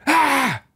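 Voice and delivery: sudden scream as if under attack; startled shout, very high and loud; retold scream. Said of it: "I heard someone go".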